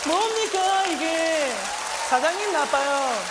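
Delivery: high, loud indignant catchphrase; mock outraged shout. Worker crying out against his boss, mock fury. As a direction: protest at the top of the voice.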